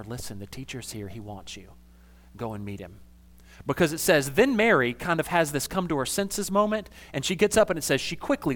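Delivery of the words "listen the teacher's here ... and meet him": much softer, hushed so others won't hear; very quiet. Retold or imitated. Martha quietly fetching her grieving sister, hushed. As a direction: say it low and secret, close to her ear. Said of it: "to say very quietly to her".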